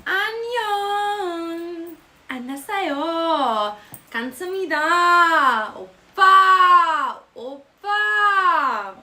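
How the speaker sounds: high, drawn-out mock Korean squeal. Showing off fake Korean to viewers, mock squealing. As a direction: whine the Korean words, swelling on each last vowel. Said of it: "I can also speak Korean".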